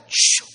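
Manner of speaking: long hushed "shoo" of passing car; imitated car whoosh. Imitates car rushing past.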